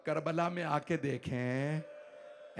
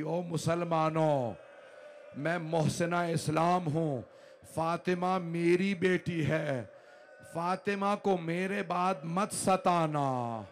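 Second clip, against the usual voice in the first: slow, louder grieving appeal; mournful plea; 3 dB louder, slower than usual. Acted. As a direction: plead slowly to the faithful, voice raised in grief. Khadija's dying plea to the ummah. (धीमी, ऊँची आवाज़ में दर्द भरी फ़रियाद)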